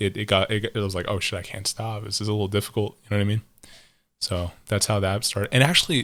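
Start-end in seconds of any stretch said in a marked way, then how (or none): none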